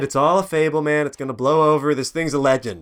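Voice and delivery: lightly voiced dismissive investor; gravelly old tycoon. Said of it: "He said".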